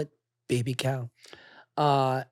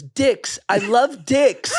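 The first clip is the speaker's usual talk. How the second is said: put-on excited kid voice, higher and louder; excited child; 8 semitones higher, 7 dB louder, much slower than usual. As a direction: squeal it like an eager little boy. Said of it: "He goes".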